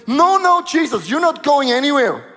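cling to him and refuse to let go; pleading Peter. Acted. Peter begs Jesus to stay.

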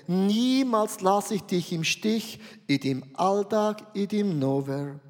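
gentle repeated blessing; tender divine promise. Acted. God's promise voiced in sermon.

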